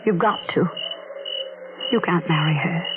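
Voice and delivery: slow, hushed desperate plea; desperate pleading. Acted. Woman begging her lover, slow and hushed. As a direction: beg him quietly to end it.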